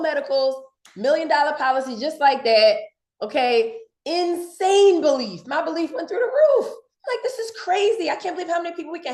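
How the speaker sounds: thrilled disbelief, voice climbing; amazed excitement. Real, not acted. Salesman marvels at the cheaper policy.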